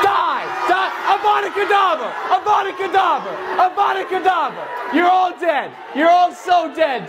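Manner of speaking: high-pitched mock killing spell; mock furious curse. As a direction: hurl curses at the crowd in pretend outrage. Mock-cursing the crowd with killing spells.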